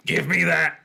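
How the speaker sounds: snatch it back, crying out; cried out. A narrator's reading. Dummy crying out at Chris for the paper. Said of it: "he cried".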